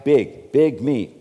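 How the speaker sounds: slow, swelling "big, big me"; mock grandeur. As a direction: puff up "big, big me" like a boast. Mocking the inflated ego.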